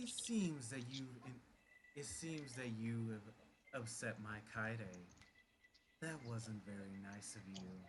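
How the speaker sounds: low, soft doubled voice, like two at once. Narrating a story, voice her line as two voices at once, high and low. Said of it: "a voice that sounds like two voices at the same time, one high pitched and one low".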